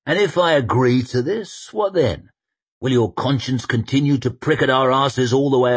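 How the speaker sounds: grand general voice. Acted. Koska voiced.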